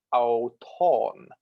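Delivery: "auton" with pitch starting high, then lowering; circumflex pitch accent. Shown as a demonstration. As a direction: let the long vowel in "auton" fall from high. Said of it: "the pitch on a circumflex accent starts high".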